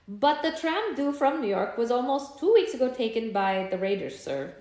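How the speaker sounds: a loud, half-Swedish attempt at German; shaky German accent. Vendor explaining the raided tram, in a weak German accent. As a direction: push through a rough German accent. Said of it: "That's not a very good German accent".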